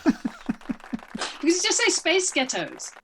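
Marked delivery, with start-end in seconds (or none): 1.9-2.9 laughing Scottish-accent demo. Shown as a demonstration. Explaining how the accent trick works, laughing Scottish accent. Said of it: "a band in a Scottish accent".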